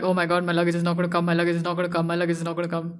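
rushed, repetitive fretting; mock panic under the breath, hurried; retold panic. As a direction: rattle it off like an anxious loop. Retold panic at baggage claim.

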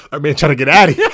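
loud, high, through real laughter; cracking up as you speak; laughing while talking. Real, not acted. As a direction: push the words out mid-laughing fit.

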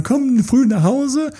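high, slow mock plea to stay home; clingy plea. Clingy partner begging their partner to come home early, high and slow. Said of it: "sie müssen sagen".

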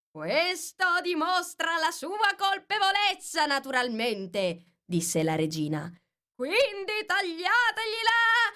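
slow, high commanding queen; haughty Queen calling for heads; imperious queen. Acted. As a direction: pronounce sentence like a tyrant queen. Queen demands punishment.

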